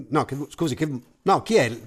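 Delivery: stammering then shouting; flustered protest. Acted. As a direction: protest as the mic is taken. Narrator's mic grabbed away. (protesta concitata)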